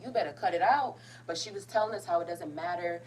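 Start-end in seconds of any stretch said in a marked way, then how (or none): 0.0-1.0 firm, lifted warning to oneself; scolding oneself. Real, not acted. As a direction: pull yourself together out loud. Scolding self for getting emotional.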